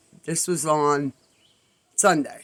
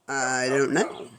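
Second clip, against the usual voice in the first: soft, low and drawn out; sheepish admission; 4 semitones lower, 7 dB quieter, slower than usual. Retold or imitated. Asked what happens once it's caught, slow sheepish reply. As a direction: admit it slowly and quietly, rising at the end.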